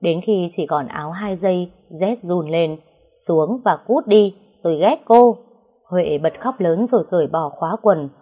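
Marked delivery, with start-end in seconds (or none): 3.3-5.4 loud angry yell, building louder; furious shout. Acted. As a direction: bellow her away in rage. Nam drives Huệ off the table. (quát lớn giận dữ)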